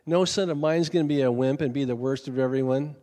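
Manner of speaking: loud, hard scolding in a father's role; harsh father. Retold or imitated. Dad berating his crying little son at ball practice, harsh. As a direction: imitate a dad berating his boy, volume pushed up. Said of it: "saying all this hard stuff".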